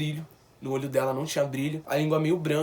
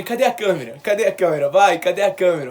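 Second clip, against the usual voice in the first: insistent demand; 2 semitones higher, 7 dB louder than usual. Retold or imitated. Son demanding the nurse show the camera, building insistence. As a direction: keep demanding, building toward a near-shout.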